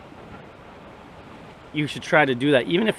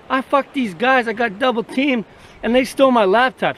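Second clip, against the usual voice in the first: squeaky whiny wife, pitched up; high mock wife voice; 8 semitones higher, 3 dB louder than usual. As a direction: play the guilty wife in a silly high voice. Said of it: "be like".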